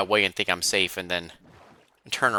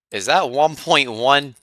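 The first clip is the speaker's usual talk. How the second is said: surprised; 7 semitones higher, 8 dB louder than usual. Real, not acted. Surprised at weapon stat.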